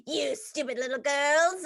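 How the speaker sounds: lightly acted mean scolding; a hint of theatrical nastiness; mean Miss Hannigan. Playing the orphanage boss to camp kids, mock mean scolding. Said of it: "when I was mean to them".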